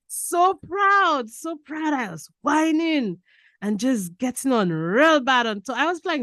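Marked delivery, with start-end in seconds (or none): 0.1-1.9 high then softening so proud; fading joy. Real, not acted. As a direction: let the pride ring then fade. Repeating with fading emotion.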